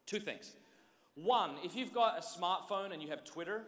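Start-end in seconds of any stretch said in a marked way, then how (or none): 3.2-3.6 accented Twitter. Shown as a demonstration. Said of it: "I said Twitter with an accent".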